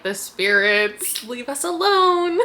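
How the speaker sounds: slow, hammed-up plea to the spirits; mock spooked plea. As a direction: pretend to beg the ghosts, rising. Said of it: "They're like".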